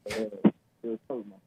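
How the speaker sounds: distant, muffled phone caller; far from mic. Real, not acted. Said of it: "You're coming in so muffled".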